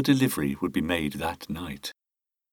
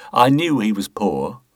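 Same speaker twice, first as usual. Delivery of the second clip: put-on pious air; 2 semitones higher, 4 dB louder than usual. Boothby pleads to the inspector, mock pious. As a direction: feign piety, a touch hammed-up. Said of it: "tried his best to affect a pious air".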